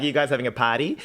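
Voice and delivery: put-on amateur Australian accent; Aussie accent. The new boy asking about the party, Aussie accent. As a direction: ask it with an on-and-off Aussie twang. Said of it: "It comes and goes".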